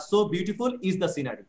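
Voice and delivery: So punched, said slowly; emphatic, slow. Shown as a demonstration. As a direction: lean on So, read slowly. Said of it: "জোর দিয়ে বলতে পারো যে". (So শব্দে জোর দিয়ে ধীরে বলা)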